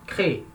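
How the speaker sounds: "crê" as a single syllable; weak syllable dropped. Shown as a demonstration. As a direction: end "crê" short, nothing after the vowel. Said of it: "a última sílaba é fraca".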